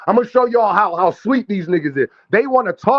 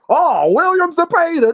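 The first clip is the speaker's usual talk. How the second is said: high, slow, sing-song mock of a bandwagoner; much higher and drawn out, imitating a fake fan; mocking imitation; 10 semitones higher than usual. Streamer mocking a chat rival who switched picks, high slow sing-song imitation. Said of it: "you wanna act like".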